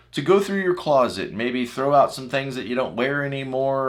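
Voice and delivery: normal talking voice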